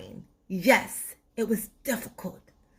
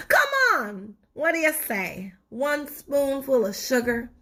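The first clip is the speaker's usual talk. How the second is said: coaxing tooth; 4 semitones higher than usual. Acted.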